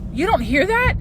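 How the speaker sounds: high-pitched incredulous question; retold disbelief. Girlfriend challenging boyfriend over unheard screams, retold disbelief. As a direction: act out being baffled he can't hear.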